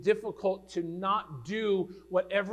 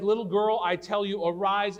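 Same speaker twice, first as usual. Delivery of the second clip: put-on Christ raising the girl; 4 semitones higher, 6 dB louder than usual. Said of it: "the voice that says to the dead".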